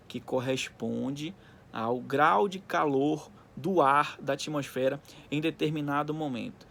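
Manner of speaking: slow, deliberate dictation to class; dictating. Acted. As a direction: spell it out slowly for notes. Repeats the definition slowly for underlining. (ditando devagar)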